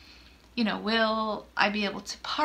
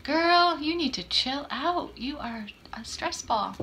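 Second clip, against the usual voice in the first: sassy self-scolding; 5 semitones higher than usual. Retold or imitated. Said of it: "I'm like".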